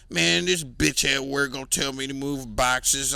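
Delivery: whiny mimic of a guy moaning about his boss; mock griping coworker voice; mocking roommate. Mocking roommate complaining after work.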